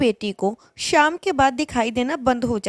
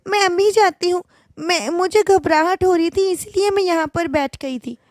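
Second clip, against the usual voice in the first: put-on higher, timid young bride; nervous bride; 5 semitones higher than usual. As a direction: excuse herself meekly, pitched up. Bride answers mother-in-law nervously. (सास से घबराई, ऊँची आवाज़ में बोलती दुल्हन)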